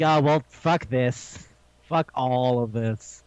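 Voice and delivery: slow, drawn-out mock disgust; slow, sinking acted resignation; exasperated giving up. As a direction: stretch the words in weary exasperation. Acted exasperated reaction to friendship line.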